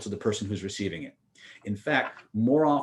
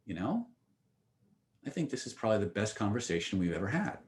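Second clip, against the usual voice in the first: softly imitated thoughtful admission; quiet realization; 3 semitones lower, 7 dB quieter than usual. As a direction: let it out softly, as a dawning verdict. Retold girlfriend's reflective verdict after pause.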